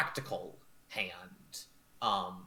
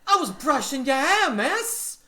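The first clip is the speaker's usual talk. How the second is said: very high, loud defensive whine; flustered maid; 12 dB louder than usual. Acted. Maid protesting she was only brushing hair, high and flustered. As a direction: squeak out an excuse.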